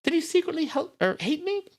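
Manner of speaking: very high-pitched, distressed questioning; grieving sister, agitated. A narrator's reading. Nita asks why Brad never mentioned despair, agitated. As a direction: plead for answers in a high character voice.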